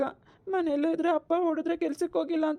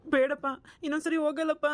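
crying plea. Acted. Boy begs father not to beat.

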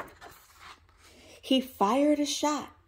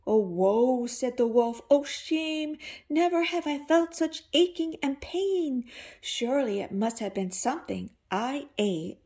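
moaning wolf; 2 semitones higher than usual. Acted. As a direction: groan like a wolf with a bellyache. Wolf moans about stomach.

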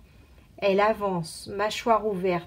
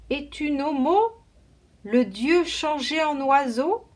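higher, timid question; awed boy; 6 semitones higher, 3 dB louder than usual. A narrator's reading. A kneeling boy asks the giant bird, awed. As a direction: ask the bird god in wonder.

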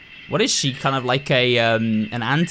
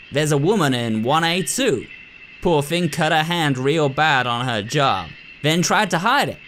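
put-on wobbly folksy doctor voice, accent undecided; badly done doctor voice. Doctor briefing the nurse, voice admittedly done badly. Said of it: "I'm doing her voice really badly".

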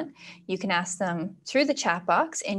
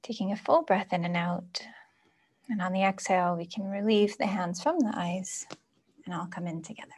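soft guidance, trailing down quieter; guided meditation; 4 dB quieter than usual. Acted. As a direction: gently bring the group out of the exercise.

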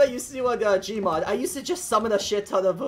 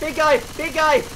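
calling out; 5 semitones higher, 4 dB louder than usual. Real, not acted. Warning team of tank.

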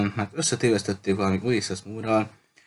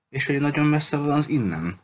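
irritated complaint, pitched up; annoyed; 6 semitones higher than usual. A narrator's reading. Engineer objecting to how far away it is, annoyed. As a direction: voice a peeved engineer, higher. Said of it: "A mérnök hangja határozottan bosszúsnak tűnt".

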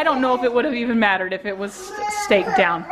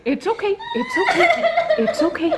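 soothing, coaxing comfort; calm them down gently; soothing a scared dog; 6 semitones higher than usual. Real, not acted. Comforting crying child.

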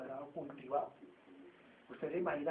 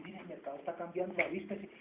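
quoted advice; 4 dB quieter than usual. Retold or imitated. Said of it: "a que le dicen".

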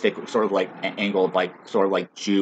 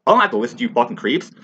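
high, loud, scornful yell; yelling back at police who say they're scared, furious; acted furious shout; 6 semitones higher, 4 dB louder than usual. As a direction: hurl the threat at them. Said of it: "You're scared of me".

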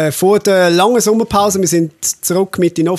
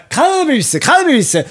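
mock mumbling fan; 9 semitones higher, much slower than usual. Guys whispering name behind him.

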